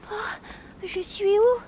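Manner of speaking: crying while asking; lost and weeping; tearful. Acted. A lost girl weeps asking where she is.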